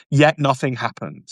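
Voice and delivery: normal talking voice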